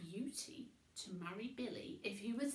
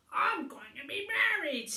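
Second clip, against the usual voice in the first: louder, higher excited announcement; happy grunt; 8 semitones higher, 11 dB louder than usual. Acted. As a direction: burst it out with glee. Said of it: "he grunted happily".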